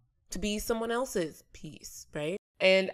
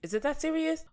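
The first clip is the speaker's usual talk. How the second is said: incredulous; 4 semitones higher, 3 dB louder than usual. Retold or imitated. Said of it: "be like".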